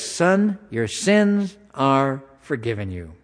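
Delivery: slow, tender pronouncement to the man; solemn declaration. Acted. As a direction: let each word land gently, slowly. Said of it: "and he declares".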